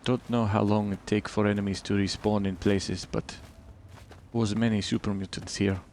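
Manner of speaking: put-on a light, generic Eastern European accent with broken English; mild put-on Eastern European accent with clipped grammar; bad Eastern European accent. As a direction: keep up a hammed-up Eastern European voice. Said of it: "Oh, bad accent time".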